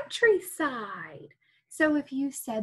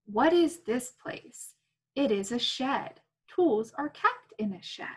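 put-on reading to children. Reading picture book aloud.

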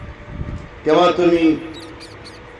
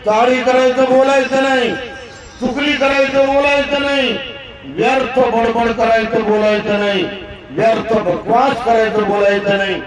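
rising, higher ringing sermon voice that climbs with each line; fervent preaching; 4 semitones higher than usual. Acted. Preacher rouses the congregation toward right speech, fervent and climbing. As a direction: build the list like a sermon reaching its peak.

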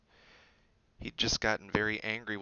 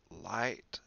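incredulous; 3 dB quieter than usual. Acted. Ron incredulous at big book.

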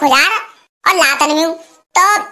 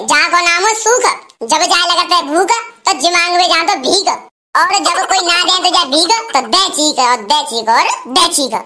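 rhyming dialogue recital. Acted.

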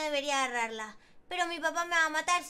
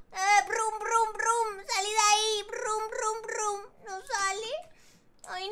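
normal talking voice

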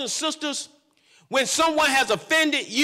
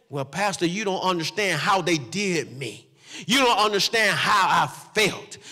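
imitating complaint; 6 semitones lower than usual. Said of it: "you have a sense to say".

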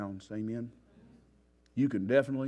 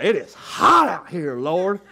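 loud, slow, higher whiny plea to God; complaining desert wanderer; 8 semitones higher, 15 dB louder, slower than usual. Retold or imitated. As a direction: moan about the heat to the Lord. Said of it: "they was out in the desert talking about".

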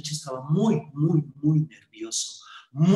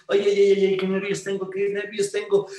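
louder, higher fretful ay ay ay; nervous fretting; 4 semitones higher, 3 dB louder than usual. Acted. Nervous young man frets outside the pharmacy, louder and higher. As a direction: wring your hands out loud. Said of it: "el muchacho nervioso, nervioso dijo".

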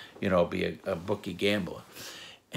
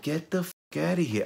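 high-pitched, exasperated retold outburst; incredulous brush-off in a raised pitch; angry dismissal; 9 semitones higher than usual. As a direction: act out telling someone off, pitch jumping up. Retelling his angry dismissal.

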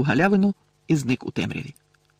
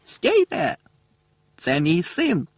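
much higher, strained cry; desperate cry; 5 semitones higher, much slower than usual. A narrator's reading. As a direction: plead at the top of the voice. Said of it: "пролунав раптом знайомий голос". (батько кричить чаклунам: благальний крик)

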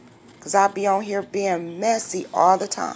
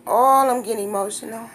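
higher, emotional outburst with a drawn "Oh"; welling up, pitched higher; getting emotional; 4 semitones higher, 4 dB louder than usual. Real, not acted. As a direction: let the feeling spill out on "Oh".

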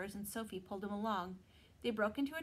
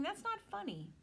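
high, indignant complaint; mildly offended, scowling; 11 semitones higher than usual. Acted. Will protesting the pixie's imitation, offended.

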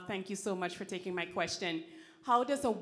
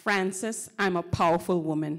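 loud declaration; 9 dB louder than usual. Real, not acted. Student declares her power to the audience, loudly. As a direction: belt it out with full power. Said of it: "I want you to say very carefully".

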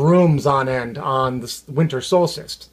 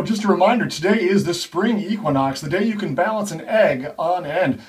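smooth radio host. Acted. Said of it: "those very same on-air personalities".

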